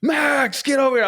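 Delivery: high, loud yell across the yard; screaming at the dog. Retold or imitated. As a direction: call the runaway dog at full voice. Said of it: "I'm screaming".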